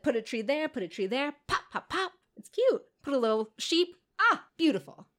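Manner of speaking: a lightly voiced cheerful goddess, rising high; playful goddess. Retelling the hag goddess shaping land, lightly voiced delight. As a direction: play the hag placing trees with glee. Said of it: "She's like".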